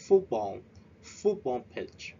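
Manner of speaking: FOOTball, first syllable stressed. Shown as a demonstration. Teacher modelling the word slowly: first syllable stressed. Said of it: "We stress at the first syllable".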